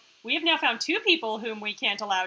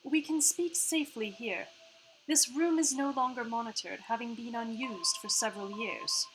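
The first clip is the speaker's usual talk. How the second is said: put-on half-Australian AI accent. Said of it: "sorry about her accent right now".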